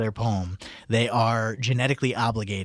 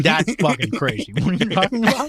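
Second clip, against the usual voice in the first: chewing ice; 6 semitones higher, 4 dB louder than usual. Real, not acted. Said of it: "I'm chewing ice on the radio".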